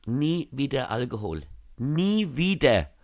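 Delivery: slow, dragged-out hungover vow. Acted. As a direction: groan it out, swearing off drink.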